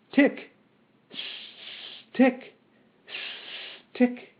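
high, short spoken ticks; mechanical ticking. A narrator's reading. Metal man ticks between phrases, high mechanical ticking. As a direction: tick like clockwork, high and evenly spaced.

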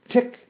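high, short spoken ticks; mechanical ticking. A narrator's reading. Metal man ticks between phrases, high mechanical ticking. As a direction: tick like clockwork, high and evenly spaced. Metal man's clockwork tick.

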